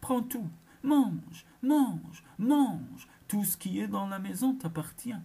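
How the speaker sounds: high, loud defeated shriek; screaming. Acted. The beaten witch screams at the girl, high and loud. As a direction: shriek "mange" again and again. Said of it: "hurla-t-elle".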